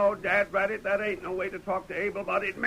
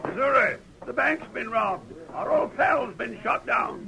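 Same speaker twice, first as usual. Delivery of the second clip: alarmed shout; 5 semitones higher than usual. Acted. Old-timer to his partner about the robbery, alarmed shout. Bank robbed, friend shot.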